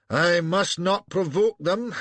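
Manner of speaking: high, slow mock of a timid superior; mocking Hardinge. Broadfoot mimicking Hardinge, high and slow mockery. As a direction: sneer it out in his boss's voice. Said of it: "says Hardinge".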